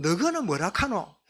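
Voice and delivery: lightly voiced Gyeongsang dialect question. Preacher puts Jesus's question to the disciples in local speech, Gyeongsang dialect. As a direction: ask it in everyday Gyeongsang dialect. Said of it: "우리 경상도 보면".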